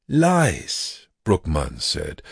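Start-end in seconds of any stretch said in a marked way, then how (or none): 0.1-1.1 high, sharp bitter cry; bitter accusation. Acted. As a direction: spit it out in disgust. Accusing the vampire.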